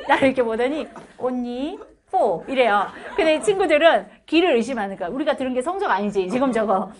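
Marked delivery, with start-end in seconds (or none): 1.2-2.4 put-on teacher reading out a score in Gyeongsang-accented English; mock old teacher saying one, four with a Gyeongsang accent; old teacher calls out a grade in Gyeongsang English. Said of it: "그 경상도 사투리 영어 알죠?". 3.1-6.9 louder, talking through real laughter; can barely get it out for laughing; telling a class story while cracking up. Real, not acted. Retelling a funny classroom moment.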